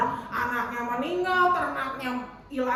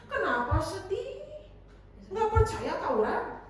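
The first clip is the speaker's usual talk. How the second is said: higher-pitched, incredulous chiding; mock reproach; 4 semitones higher than usual. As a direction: chide with exaggerated disbelief. Mock scolding voice continues. (teguran pura-pura dengan nada tinggi)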